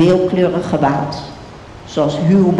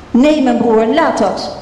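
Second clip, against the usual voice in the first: higher, urgent plea to stop; pleading cry; 5 semitones higher than usual. Acted. Tamar pleads with her brother Amnon, higher and urgent. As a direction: cry out to push him off. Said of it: "riep ze".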